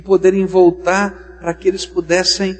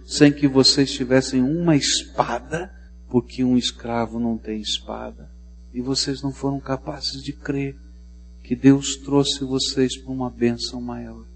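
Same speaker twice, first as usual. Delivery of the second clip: grave Moses; 4 semitones lower, 4 dB quieter than usual. Acted. Moses rebukes the people.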